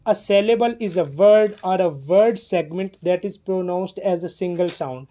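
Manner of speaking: very slow, word by word; measured dictation pace; slow definition reading. Shown as a demonstration. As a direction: read the definition out slowly for the class. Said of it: "teacher reads definition aloud".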